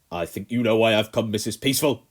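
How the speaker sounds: loud, menacing Colonel; barely contained rage; cold fury. A narrator's reading. Colonel arrives furious.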